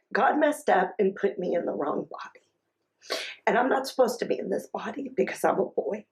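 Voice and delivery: put-on hushed, partly whispered child's confession; retold tearful confession. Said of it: "he started crying, and he said".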